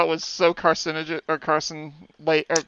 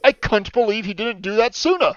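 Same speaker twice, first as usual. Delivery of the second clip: attempted Cockney, pitched higher; Cockney accent; 4 semitones higher than usual. Shown as a demonstration. Podcast guest tries out a line for laughs, Cockney accent. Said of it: "do this in a Cockney accent".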